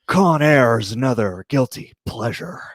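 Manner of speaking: lightly voiced Nicolas Cage; Nick Cage impression. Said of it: "John does a perfect Nick Cage impression".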